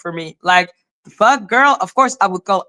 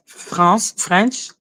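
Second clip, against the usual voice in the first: French accent, the word lifted at the end. Shown as a demonstration. Showing how French sounds pronounced, French accent. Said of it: "like, in the French accent".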